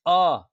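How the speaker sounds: isolated अ, sounded from the throat; अ as a loud, separate open sound; throat vowel demo. Shown as a demonstration. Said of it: "कंठ से आ रही है".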